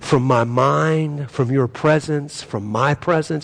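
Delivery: earnest spoken prayer to God. Shown as a demonstration. Pastor modelling a confession prayer, earnest prayer. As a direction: pray it aloud as a model for the congregation.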